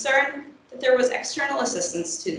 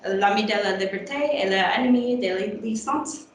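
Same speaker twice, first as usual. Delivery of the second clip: French title read with an English accent; broken French. Real, not acted. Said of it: "sorry for my bad French".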